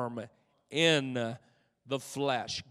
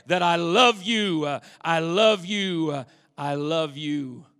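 fading refrain; 7 dB louder than usual. Acted.

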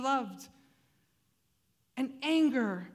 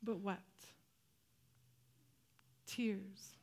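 hushed emphasis; 3 semitones lower, 11 dB quieter, slower than usual. Acted. Contrasting weeping with wailing.

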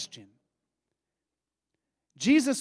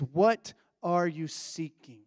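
gentle, searching; slower than usual. Shown as a demonstration. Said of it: "A more appropriate translation".

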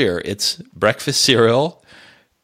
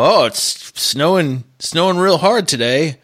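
mocking locker-room guy; 4 semitones higher than usual. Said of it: "they're always like".

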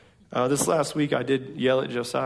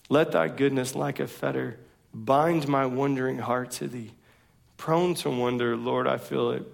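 hymn recited slowly; slower than usual. Retold or imitated. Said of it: "Come Thou Fount, the hymn".

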